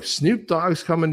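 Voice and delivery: high, slow incredulous question; lightly played incredulous mom; slow disbelief. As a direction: drag it out, high and doubtful. Mother disbelieving the news.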